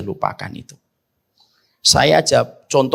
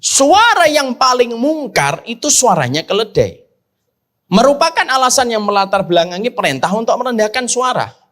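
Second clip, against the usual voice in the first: forceful preaching; 8 semitones higher than usual. Acted. Ustadz warns the congregation against shouting, raised preaching voice. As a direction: warn the crowd about shouting, voice high.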